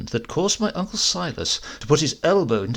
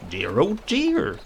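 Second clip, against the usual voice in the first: slow, sighing dear oh dear; mock dismay; 7 semitones higher, slower than usual. A narrator's reading. Silas pretending regret to the parson, slow mock sigh. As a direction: feign sorrow to humour him.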